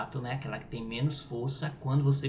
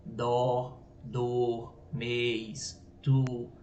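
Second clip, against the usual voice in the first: Dó, dor, mês, tu, each said alone with full weight; stressed monosyllables; much slower than usual. Shown as a demonstration. Teacher listing tonic monosyllables, each fully stressed. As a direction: give each one-syllable word its own stress. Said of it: "os tônicos são aqueles que têm mais força".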